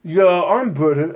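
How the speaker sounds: slow, rough attempt at British; badly faked British accent, drawn out; failed British accent. Host fumbling a Simon Cowell impression, rough British accent. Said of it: "I can't even do a British accent".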